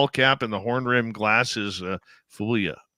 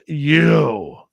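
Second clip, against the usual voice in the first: loud, drawn-out biker's call-out; imitated yell; 5 semitones higher, 7 dB louder than usual. Biker calls to a dad at the concert, imitated yell. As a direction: call out like the biker singling someone out. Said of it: "he yells at me".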